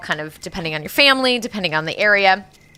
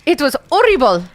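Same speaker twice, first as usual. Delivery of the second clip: put-on Mexican accent; 7 semitones higher, 5 dB louder than usual. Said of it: "read it in a Hispanic accent".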